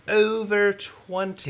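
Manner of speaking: high, slow amazed echo. Real, not acted. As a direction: stretch out over twenty in awe.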